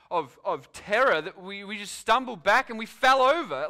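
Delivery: lightly voiced officer, fumbling then rising in awe; an officer trying to explain what spooked him; officer to Sarge. Officer continues report to Sarge.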